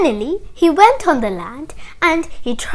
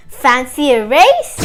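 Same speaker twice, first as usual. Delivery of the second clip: slow, louder challenge to a rival; hare's challenge; 6 dB louder than usual. Acted. Hare challenges Tortoise to a race, slow loud challenge. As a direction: throw down a challenge, drawn out. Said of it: "So he came here and said".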